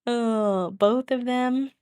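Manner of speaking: gushing. Real, not acted. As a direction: melt over the cute babies. Gushing over cute babies.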